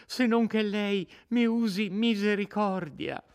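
put-on a terrified girl begging her captor; frightened young woman pleading. Lucia supplica misericordia. (Lucia disperata che supplica l'innominato, voce molto più alta)

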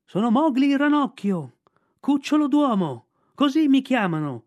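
put-on boy shouting his name up to the kite. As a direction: cry out your name to the sky.

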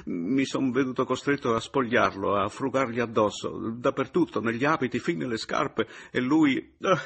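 a man desperate to explain himself; agitated outburst. A narrator's reading. Papiano justifying himself to Paleari, agitated.

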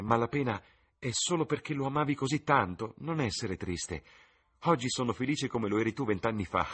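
voce di ragazza, più acuta, piena di slancio; giovane innamorata. Acted. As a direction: fanciulla entusiasta che si confida. Sibyl consola la madre. (Sibyl alla madre, voce acuta e sognante)

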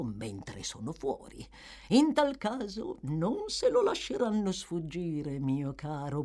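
sly old man coaxing the boy, only lightly put on; old Fagin voice. Fagin coaxing Oliver to copy the boys, lightly voiced sly old man.

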